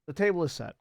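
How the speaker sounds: put-on light Russian-style comrade accent; a touch of Russian comrade. GM settles on a mild Russian accent for Koenig. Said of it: "let's stick with comrade".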